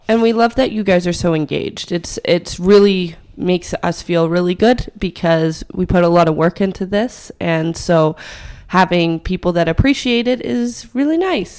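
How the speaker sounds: raspy, worn-out voice from hay fever; hoarse voice. Real, not acted. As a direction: talk through a fried, croaky voice. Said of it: "I sound like a gremlin right now".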